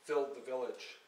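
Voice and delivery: measured, lyrical poetry recital; poem reading. Acted. Poet reading her verse to an audience, measured and lyrical. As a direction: read each line like verse to a hall.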